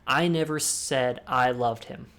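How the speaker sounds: I stressed, slow and deliberate. Shown as a demonstration. Classic emphasis exercise shown to viewers, stress on I. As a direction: lean on the first I. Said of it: "you can change the word and".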